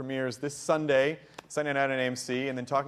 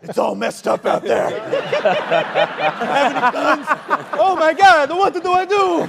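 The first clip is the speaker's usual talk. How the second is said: put-on Southern accent; 12 semitones higher, 11 dB louder than usual. Host imitating actor scaring the coffee guy, loud Southern accent. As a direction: play up a hammy Southern accent. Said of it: "just did the Southern accent and be like".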